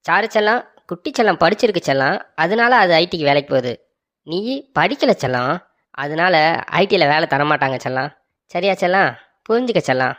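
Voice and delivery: put-on coaxing baby talk. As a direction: coax her gently like a little kid. Husband coaxing wife like child.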